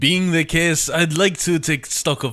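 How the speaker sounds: put-on lightly done French accent. Latour asking Catherine about workers in a light French accent. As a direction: play a polite French overseer. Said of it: "French voice for Latour".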